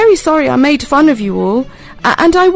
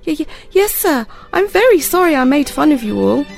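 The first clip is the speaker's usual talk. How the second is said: put-on higher, stammering boy; frightened stammer; 7 semitones higher than usual. A narrator's reading. Frightened boy apologising to the pirate, higher and stammering. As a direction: stutter out the apology, scared. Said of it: "feeling very frightened".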